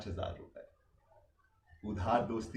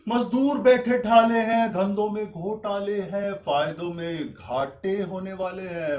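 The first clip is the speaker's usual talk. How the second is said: high, loud rhyming declamation; ringing, singsong list; theatrical listing; 7 semitones higher, 8 dB louder, slower than usual. Acted. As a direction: proclaim each trouble like a showman. Pitchman lists the family's troubles.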